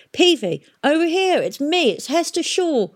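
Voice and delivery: high, loud call. A narrator's reading. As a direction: hail him across the yard. Hester calling to Peavy.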